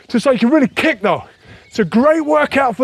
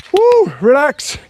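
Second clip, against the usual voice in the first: relieved woo; 5 semitones higher, much slower than usual. Real, not acted. Workout just finished.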